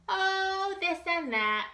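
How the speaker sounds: casual high Little Bob; shrugging. A narrator's reading. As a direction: toss it off with a shrug. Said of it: "Little Bob said with a shrug".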